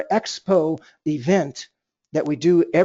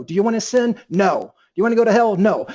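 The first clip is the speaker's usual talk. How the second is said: emphatic no; 2 semitones higher, 3 dB louder than usual. Shown as a demonstration. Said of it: "respond back with an emphatic no".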